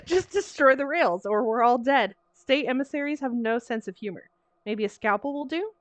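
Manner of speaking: laughing through the line. Acted. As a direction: giggle while saying it. Laughing child character line.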